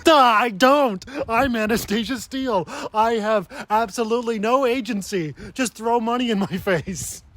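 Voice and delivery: high-pitched mock airhead voice; Anastasia Steele. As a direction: send her up as a clueless heroine, pitched high. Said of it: "She might as well say that".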